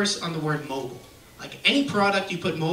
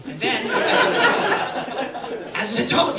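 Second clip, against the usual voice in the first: slow build; 5 semitones higher, slower than usual. Acted. Building to punchline.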